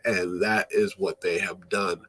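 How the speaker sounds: a dry whisper to close the point; whispered aside. Real, not acted. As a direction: whisper it as a wry remark. Wry aside under breath.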